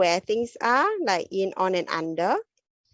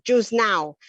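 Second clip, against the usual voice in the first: put-on toddler two-word phrase; 3 semitones higher, 3 dB louder than usual. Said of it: "they might say".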